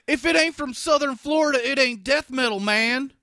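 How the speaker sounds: loud, high-pitched mock gatekeeper; mock purist outburst. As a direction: yell it like an indignant metal purist. Mocking gatekeeping death metal purists.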